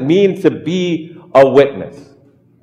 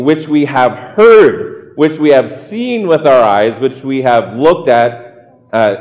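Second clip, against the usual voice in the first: scripture reading. Acted. Pastor reading First John aloud, weighty and proclaiming. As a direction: proclaim each line of the text.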